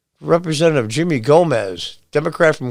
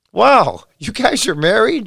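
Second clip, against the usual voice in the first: impressed surprise; 8 semitones higher than usual. Retold or imitated. President meets Dave Rubin's husband.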